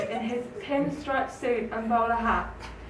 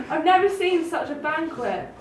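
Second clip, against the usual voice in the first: excited cry; 4 semitones higher, 4 dB louder than usual. Acted. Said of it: "cried the country mouse".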